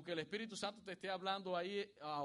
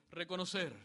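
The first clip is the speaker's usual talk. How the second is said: reconocer called out louder for the congregation; repeat after me; 2 semitones higher, 5 dB louder than usual. Shown as a demonstration. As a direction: say reconocer firmly so they echo it. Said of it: "Así que diga conmigo".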